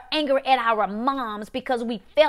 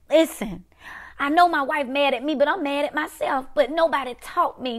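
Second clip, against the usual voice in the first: mild acted exasperation, a little raised; angry; 4 semitones higher than usual. Preacher voicing an angry husband who was never taught, mildly angry. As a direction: protest as if hurt and angry at yourself. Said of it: "You're angry because you're saying".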